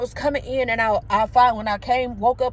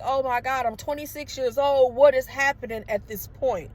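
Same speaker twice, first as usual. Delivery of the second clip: retold distress; 4 semitones higher than usual. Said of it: "I'm crying".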